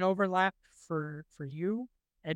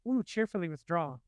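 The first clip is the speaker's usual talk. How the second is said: Sideshow Bob's line. Retold or imitated. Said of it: "I've been saying".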